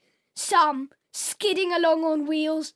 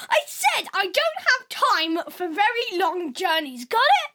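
annoyed; 4 semitones higher than usual. Acted. Man loses patience with robot.

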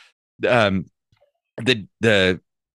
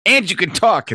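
higher, louder burst of disbelief; can't believe what you're hearing; astonished barman; 10 semitones higher, 4 dB louder than usual. Acted. Barman to a talking dog, astonished.

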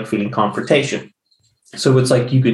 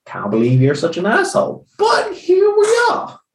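sarcastic comeback. Retold or imitated.

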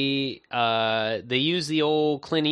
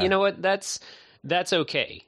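higher, lightly acted shrug of acceptance; mock resignation; 8 semitones higher than usual. Filmmakers voiced as giving up on the chase, mock casual. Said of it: "I was like".

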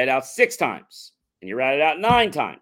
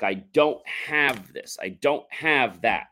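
slow demo; slower than usual. Shown as a demonstration. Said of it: "when we put a don't on something".

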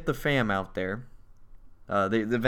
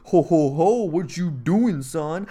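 lightly voiced confronting dad, pitched up; mock alarmed dad; 4 semitones higher, 5 dB louder, slower than usual. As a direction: challenge an intruder, half in jest. Dad confronts intruder in retelling.

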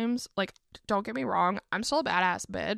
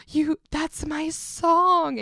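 slow and a bit louder, insisting; insistent claim; 7 semitones higher, 4 dB louder, much slower than usual. Retold or imitated. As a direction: drag it out and press harder.

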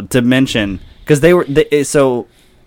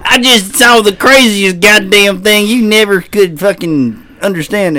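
freaked-out witness; 7 semitones higher, 5 dB louder than usual. Acted.

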